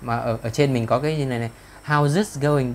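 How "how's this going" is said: "How's" ending in a buzzed z, pitched up; voiced Z ending. Shown as a demonstration. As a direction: stress the z in "How's". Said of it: "Đây là, lại là chữ giờ".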